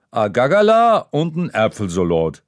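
dad repeating his order to the waitress; repeated Franconian. Acted. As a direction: repeat it firmly in dialect. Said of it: "wiederholt Papa".

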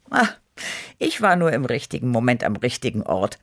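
usual speaking voice

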